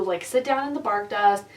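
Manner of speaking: normal talking voice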